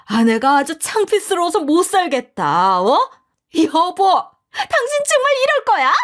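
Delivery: high, loud whimpering protest; whining wife. A narrator's reading. Mother-in-law whining at her husband, high shrill protest. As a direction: plead indignantly to her husband.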